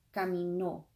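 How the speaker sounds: "caminó", emphasis on the final ó; teacher models "caminó" with stressed ó; final-syllable stress. Shown as a demonstration. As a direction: land on the last syllable of "caminó". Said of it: "emphasis on the last syllable".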